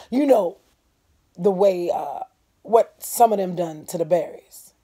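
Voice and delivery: a neighbour bringing bad news; voicing Mister Avery. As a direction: speak as a grave old farmer.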